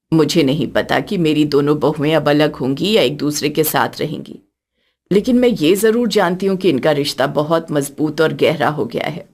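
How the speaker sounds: put-on a gentle older woman speaking from the heart; elderly mother-in-law.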